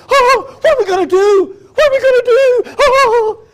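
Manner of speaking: high, frantic hammed-up panic; mock panic. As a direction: squeal it like a panicking caver. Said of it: "do you panic and go".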